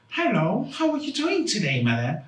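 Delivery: high-pitched mock British phone voice; put-on British accent. Scammer greeting madam on the phone, mock British accent. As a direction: fake British accent, dropping back on the last word. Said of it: "act like they're Irish and British".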